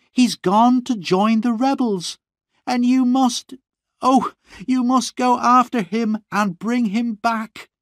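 high, urgent sister's plea near tears; tearful pleading. A narrator's reading. Sister urging brother to fetch her husband, high tearful pleading. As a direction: beg him, voice pitched high with tears. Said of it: "Annie cried".

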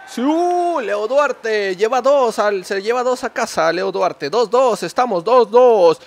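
high, loud, slow celebration; goal celebration. Real, not acted. (festejo de gol)

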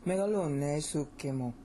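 Megalune sukemu stressed on LU and SU, endings light; correct flowing stress. Shown as a demonstration. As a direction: recite "Megalune sukemu" smoothly, leaning on SU. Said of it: "See how that flows".

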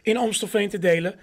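measured rhyming Sinterklaas verse; poem reading. Acted. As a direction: read the rhymes out to the room, line by line. Reads a Sinterklaas poem aloud.

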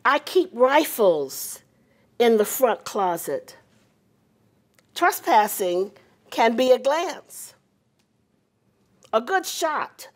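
measured poetry recital with long pauses; poem reading. Acted. Presenter reciting the guest poet's poem to the audience, measured poem reading. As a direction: read it line by line, letting each phrase settle.

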